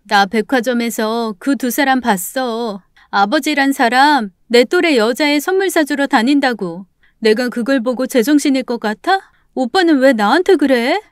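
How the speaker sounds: upset sister defending herself; indignant sister. Acted. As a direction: argue back, aggrieved. Daughter argues back at brother.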